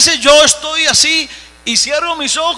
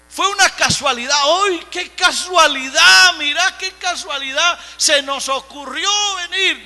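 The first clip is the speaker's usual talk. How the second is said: higher-pitched mock wonder; mock amazement; 4 semitones higher than usual. Preacher mocking the lepers' supposed coincidence, mock amazement. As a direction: act amazed at a lucky chance, tongue in cheek.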